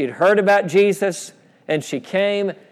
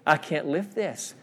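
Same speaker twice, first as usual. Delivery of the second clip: quiet, burdened plea; a softly re-enacted cry to God, slowing under the weight; retold crying out; 6 dB quieter than usual. Preacher retelling his prayer under guilt, subdued crying out. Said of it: "I cried out".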